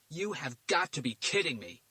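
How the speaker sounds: can't believe what he hears; disbelief. A narrator's reading. Garcia hearing he's cut out, in disbelief. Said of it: "Garcia said in disbelief".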